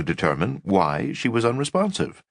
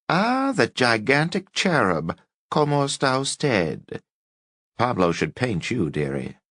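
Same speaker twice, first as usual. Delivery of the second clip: grand mock greeting; 6 semitones higher than usual. A narrator's reading. Old woman's grand mock greeting.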